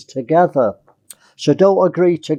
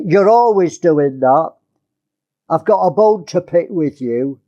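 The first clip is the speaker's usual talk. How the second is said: sharp, blaming complaint; mock nagging wife, accusing. Shown as a demonstration. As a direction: pick a fight with your husband. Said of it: "Can you see the tone of my voice?".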